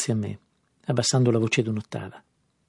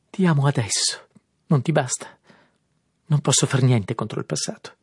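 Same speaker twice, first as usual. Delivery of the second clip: anguished plea; 3 semitones higher, 5 dB louder than usual. Acted. Daisy overwrought, pleading.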